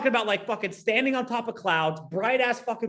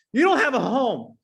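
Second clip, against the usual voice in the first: psychic's blunt verdict; 6 semitones higher, 6 dB louder than usual. Retold or imitated.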